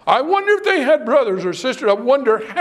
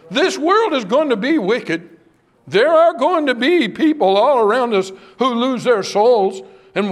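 impassioned preaching; 3 semitones higher than usual. Acted. Preacher building to full force.

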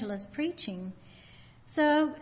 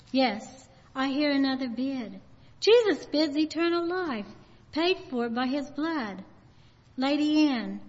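fervent preaching; 2 semitones higher than usual. Retold or imitated. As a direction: proclaim it with fervor. Preacher bids for Jesus.

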